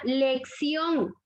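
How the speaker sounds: "lección" drawn out, weight on its ending; stress on last syllable. Shown as a demonstration. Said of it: "en la última sílaba".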